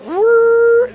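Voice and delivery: high, loud imitated whirr; machine whirr.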